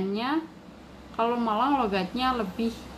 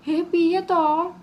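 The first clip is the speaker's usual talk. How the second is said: higher, louder, very slow irritated Blitar Javanese; annoyed Blitar Javanese; 8 semitones higher, 7 dB louder, much slower than usual. Shown as a demonstration. Teacher acts an annoyed Blitar speaker, Blitar Javanese. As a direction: scold it the Blitar way. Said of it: "orang marah".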